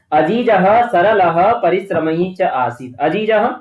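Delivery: अजीजः read slowly with a clear final ह; slow text reading. Shown as a demonstration. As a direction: read the sentence out slowly for students. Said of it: "teacher reads text line".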